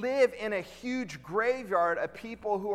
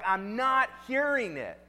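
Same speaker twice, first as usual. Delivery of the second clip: retold refusal; 4 semitones higher, slower than usual. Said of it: "they start freaking out".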